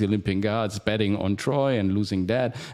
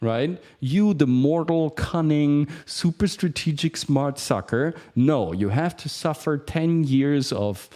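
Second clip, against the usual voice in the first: taunting god; 4 semitones higher than usual. Pretend. Poseidon voiced taunting Odysseus.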